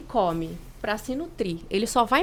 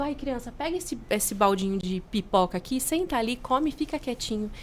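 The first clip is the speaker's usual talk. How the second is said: put-on mother quieting child. Mãe voiced quieting anxious child.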